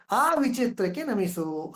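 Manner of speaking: slowed quotation of the refrain; slow poetic reading; verse recitation. Shown as a demonstration. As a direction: read it slowly and carefully. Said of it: "ಅಂತ D V G ಅವ್ರು ಹೇಳ್ತಾರೆ".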